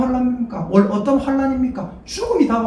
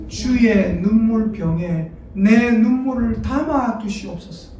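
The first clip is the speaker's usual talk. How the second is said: slow solemn recitation; slower than usual. Shown as a demonstration. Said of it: "어디에 담아둔다고요?".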